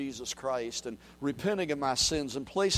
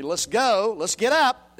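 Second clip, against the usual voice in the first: louder, higher rally cry; general's rallying call; 4 semitones higher, 6 dB louder, slower than usual. Retold or imitated. General rallying his army, shouted rally. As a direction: rouse the army. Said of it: "a general was going to say to his army".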